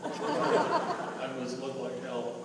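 slow, laughing mom line; laughing through it. Retold or imitated. Mother laughing at her own looks. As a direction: stretch it out while laughing.

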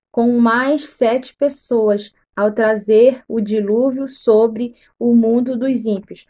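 slow, deliberate Bible reading; measured read-aloud with weighted words; scripture reading. Acted. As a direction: read the verse out solemnly, phrase by phrase.

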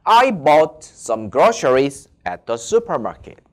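slow, deliberate English sentence; teacher reading for students; slow model sentence. Shown as a demonstration. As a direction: read it slowly, word by word. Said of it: "이렇게 읽어주시죠".

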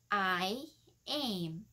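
"I am" drawn out word by word; slow demonstration. Shown as a demonstration. Teacher showing learners how to read it, slow demonstration. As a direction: say "I am" very slowly and separately. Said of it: "thì mình sẽ đọc như thế nào nè".

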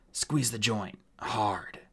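strained dwarf order; in pain. Acted. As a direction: push the order out through pain. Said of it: "eyes closed with pain".

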